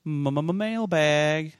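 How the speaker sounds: mock stutter on M-m-m-mailbag as a jingle. Host kicks off the mailbag segment with a jokey stutter. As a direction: stutter the opening M of M-m-m-mailbag for fun. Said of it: "stuttered segment jingle".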